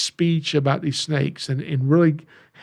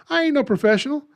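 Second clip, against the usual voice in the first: excited; 11 semitones higher, faster than usual. Real, not acted. Emphatic confession with laugh.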